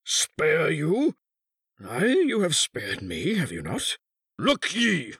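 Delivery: high, scornful cry bursting out; sudden fury. A narrator's reading. Husband refuses his wife mercy, in sudden fury. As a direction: throw her plea back, then flare up. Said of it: "he cried in sudden fury".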